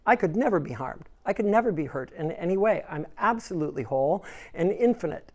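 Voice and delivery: lightly voiced firm affirmation; a hint of a steadfast believer. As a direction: recite it like a calm creed. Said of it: "and you would affirm".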